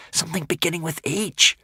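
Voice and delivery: high squeaky little creature voice; Hogfly creature. Acted. Hogfly whispering guesses to Hiccup, squeaky creature voice.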